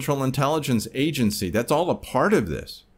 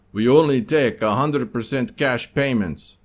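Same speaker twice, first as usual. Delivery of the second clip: put-on Russian accent; 3 dB louder than usual. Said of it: "if you didn't like my Russian accent".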